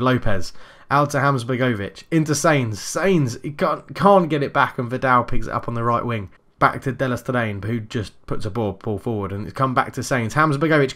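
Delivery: brisk running match commentary; play-by-play commentary. Acted. Live football game commentary.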